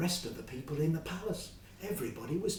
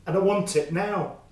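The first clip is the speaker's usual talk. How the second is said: demanding; 4 semitones higher, 11 dB louder than usual. Acted. Fred threatening Joe.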